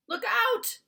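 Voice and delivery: loud, high warning cry; cried warning. Acted. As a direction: shout the warning in alarm. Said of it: "cried the B F G".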